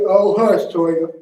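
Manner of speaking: a loud little scolding hush; mock scolding hush. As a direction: shush her loudly, half playful. Director acts out character's line.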